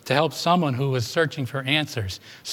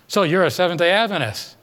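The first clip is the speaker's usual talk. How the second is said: higher-pitched, pointed question in a retold challenge; almost hostile; 4 semitones higher than usual. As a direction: question them with a touch of hostility. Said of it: "in a voice that sounded almost hostile".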